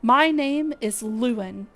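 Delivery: lightly voiced stately guild leader, measured; brief the adventurers with courteous gravity; Lewin, formal commander. Streamer voicing the guild leader's mission briefing, lightly formal. Reading NPC Lewin's lines.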